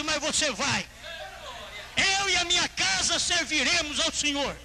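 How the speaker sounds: high, ringing pulpit cry; preaching at full force. Real, not acted. Preacher declaring his house for God, full-force preaching.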